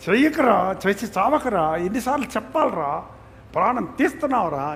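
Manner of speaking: mock exasperated parent yelling at a child; nagging scold, piling on the complaints. Shown as a demonstration. Parent mock scolding a misbehaving child, exasperated. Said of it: "గట్టిగా మాట్లాడతారా?".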